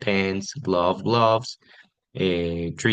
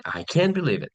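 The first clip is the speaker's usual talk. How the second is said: higher-pitched, understated enthusiasm; mild surprise; 6 semitones higher than usual. Shown as a demonstration. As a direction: demonstrate surprise, lightly. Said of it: "we have enthusiasm and surprise".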